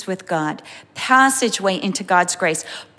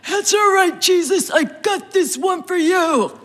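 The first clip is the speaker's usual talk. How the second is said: higher, breezy overconfident voice; cocky self-reliant believer; 7 semitones higher than usual. Pretend. A believer boasting to Jesus he can handle it. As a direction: brush Jesus off like you've got it handled. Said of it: "You know, like".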